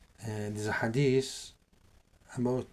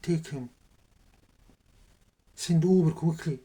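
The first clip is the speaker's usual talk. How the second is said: higher-pitched retold order; retold command; 5 semitones higher, 4 dB louder than usual. Tyrant to his men about the prisoner, retold command. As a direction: order it done, voice lifted.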